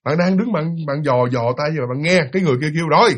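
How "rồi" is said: calling orders. Retold or imitated. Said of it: "kêu lên như vậy".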